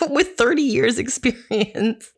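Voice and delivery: slow, lightly gruff cop voice; a hint of a hardened old cop. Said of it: "archetypally gruff cop".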